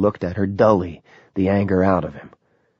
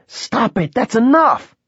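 shout; 14 semitones higher, 3 dB louder, slower than usual. A narrator's reading. Robbie pulls Wesley away, shouting.

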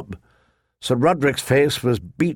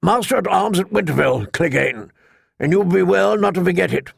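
put-on raised voice of a gruff old master-at-arms; old knight voice; 5 semitones higher than usual. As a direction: command the yard like an old knight.

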